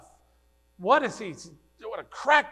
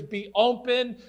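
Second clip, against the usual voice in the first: Christ opening ears; 7 semitones higher, 7 dB louder than usual. Acted. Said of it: "The voice that said to deaf ears".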